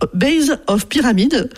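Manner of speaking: "base of pyramid" in a French accent, slow and careful; French-accented English. Real, not acted. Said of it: "avec mon super accent".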